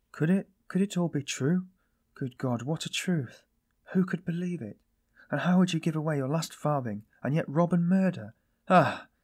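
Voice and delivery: high-pitched, stunned questions; incredulous cry. A narrator's reading. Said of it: "she cried suddenly".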